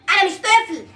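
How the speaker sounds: from plain to a high shrieking yell; building tantrum shout. Acted. Son shrieking at his mother that he is not a child.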